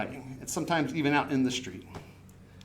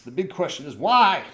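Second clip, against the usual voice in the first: big emphatic question, louder; big booming question; 6 dB louder than usual. Shown as a demonstration. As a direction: make the question as big as you can. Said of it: "That's as big as I could make it".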